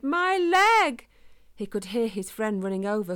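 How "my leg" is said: loud, much higher pained cry. A narrator's reading. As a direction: call out, hurt and scared. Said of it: "he cried".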